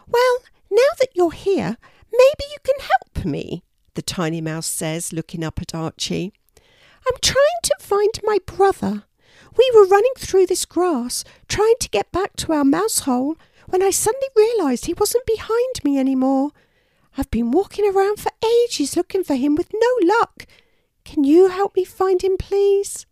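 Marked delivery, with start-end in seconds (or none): 0.1-3.6 very high, squeaky mouse voice; tiny mouse. A narrator's reading. Mouse asking Archie for help, high and squeaky. 7.1-23.0 very high, louder squeaky plea; a tiny mouse begging for help; worried tiny mouse. A narrator's reading. Mouse begging Archie to find her brother, squeaky.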